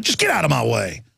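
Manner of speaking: cold dismissal. Retold or imitated. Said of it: "and I'm like".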